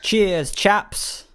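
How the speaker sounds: breathy whispered British impression; whispered mock British accent. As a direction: whisper it like a bad British impersonation. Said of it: "Oh, God".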